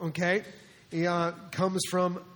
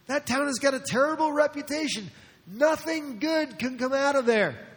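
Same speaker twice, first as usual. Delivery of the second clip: scornful disbelief; 6 semitones higher than usual. Acted. Acting Nathanael scorning Nazareth.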